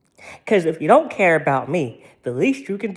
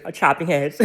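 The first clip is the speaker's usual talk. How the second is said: laughing; 3 semitones lower than usual. Real, not acted. Laughing while boasting.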